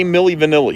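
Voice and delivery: The band name with short i, Va-NIL-li; correct pronunciation. Shown as a demonstration. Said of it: "See, you got that right".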